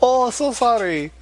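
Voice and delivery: high, slow put-on Asian accent; mock Asian accent. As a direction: imitate an Asian accent, slowly. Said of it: "That's my Asian imitation".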